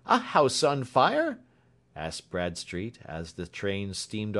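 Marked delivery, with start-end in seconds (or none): 0.1-1.4 high, loud, drawn-out question; raised, questioning inspector voice; startled question. A narrator's reading. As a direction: ask in surprise at the sight. Bradstreet asks about sudden smoke.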